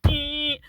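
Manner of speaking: high, drawn-out car horn noise; imitated car horn. Car nearly hitting the storyteller, imitated horn blast. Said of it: "And the car went".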